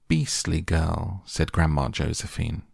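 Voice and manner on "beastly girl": disgusted. Acted. Grandma disapproving.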